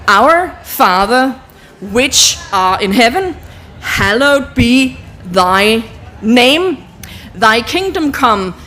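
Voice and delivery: slow, drawn-out prayer with pauses; slow prayer recital. Shown as a demonstration. Teacher leading the panel through the signed prayer, slow and solemn. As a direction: pace it out word by word like a prayer. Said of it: "leads the prayer while signing".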